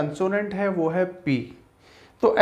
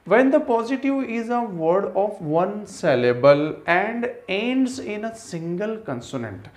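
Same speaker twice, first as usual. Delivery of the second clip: slow, deliberate rule reading; dictated rule; 3 semitones higher, much slower than usual. Acted. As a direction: read it word by word like dictation. Reads English rule slowly.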